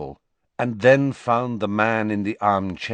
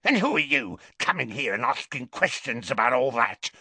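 shouted; 8 semitones higher than usual. Acted. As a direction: spit out the insults in rage.

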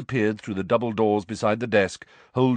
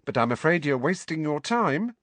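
dismissive; 4 semitones higher than usual. Acted. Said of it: "said the witch dismissively".

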